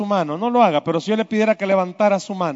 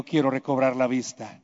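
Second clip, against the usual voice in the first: much softer, lower plea; soft humble plea; 9 semitones lower, 9 dB quieter than usual. Pretend. Bartimeo answers Jesus with a soft, humble plea. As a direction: say it low and humbly.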